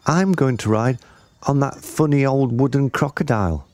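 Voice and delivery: put-on high little-girl voice; Jill. A narrator's reading. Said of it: "one little girl, whose name was Jill".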